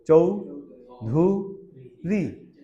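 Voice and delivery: চৌ, ধু, রি said as separate beats, each one punched; split into syllables. Shown as a demonstration. Teacher showing the class a name's syllables, beat by beat. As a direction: clap out চৌধুরী syllable by syllable. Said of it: "sound কয়টা?".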